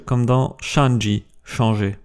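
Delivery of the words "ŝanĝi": "shanji" slowly, starting sha; "shanji" drawn out as shan-dji; SH sound. Shown as a demonstration. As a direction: open "shanji" with a sh. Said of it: "et ch".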